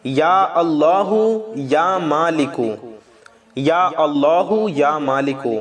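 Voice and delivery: slow, drawn-out invocation of God's names; slow prayerful invocation; dhikr recitation. Shown as a demonstration. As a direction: chant the names slowly and devoutly. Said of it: "آپ کو پڑھنا ہے".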